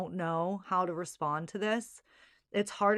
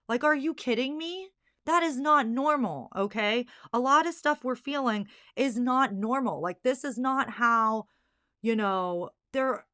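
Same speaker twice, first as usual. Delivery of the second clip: higher and louder, real indignation; getting mad; 4 semitones higher, 3 dB louder than usual. Real, not acted. Mother outraged at doctors dismissing moms, indignant and louder. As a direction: push back hard, fed up. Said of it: "I'm getting mad about it".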